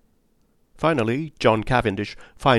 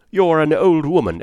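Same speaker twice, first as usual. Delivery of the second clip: retold angry outburst; 6 semitones higher, 6 dB louder than usual. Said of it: "She was very angry".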